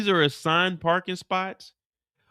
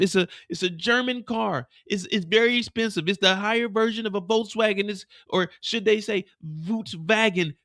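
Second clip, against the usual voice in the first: higher scared begging; higher, half-joking frightened voice; mock pleading; 4 semitones higher than usual. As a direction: beg him not to shoot, a bit hammed. Mireya pleading at gunpoint.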